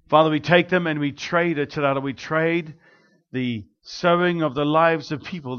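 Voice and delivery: earnest spoken prayer, steady and fervent. Acted. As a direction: pray over the offering with conviction. Prays over the offering.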